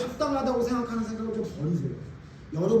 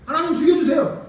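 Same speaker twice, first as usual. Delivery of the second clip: high, loud melodramatic plea; irritated Jonah; 8 semitones higher, 7 dB louder than usual. Acted. Preacher as the prophet praying to die, irritated. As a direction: cry out in fed-up exasperation. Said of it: "나 짜증나 죽겠네".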